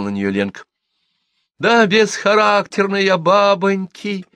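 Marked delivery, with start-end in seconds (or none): 1.6-4.3 high, loud, drawn-out wailing confession; desperate resolve. A narrator's reading. Cornered gossip confesses to the women, desperate. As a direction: cry it out desperately. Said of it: "с отчаянной решимостью заявила Милка".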